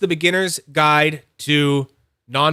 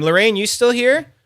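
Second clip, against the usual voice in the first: calling out; 8 semitones higher, 6 dB louder than usual. Real, not acted. Calling out to viewer.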